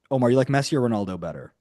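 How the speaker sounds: fast, offhand question tossed to a listener; quick aside. Real, not acted. Asking Omar quickly which footballer he prefers, fast and offhand. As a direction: rattle it off casually. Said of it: "Excuse me?".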